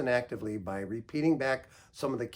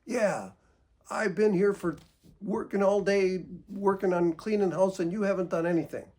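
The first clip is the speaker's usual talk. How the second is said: louder, higher accusing rant speeding up at the end; mock angry complaint; 6 semitones higher, 4 dB louder than usual. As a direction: vent at the partner who did nothing.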